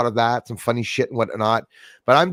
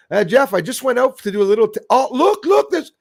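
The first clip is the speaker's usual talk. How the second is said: higher and higher with thrilled urgency; excited self-recording; 10 semitones higher, 3 dB louder than usual. Retold or imitated. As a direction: voice climbing much higher in sudden excitement. Acts out his own UFO recording.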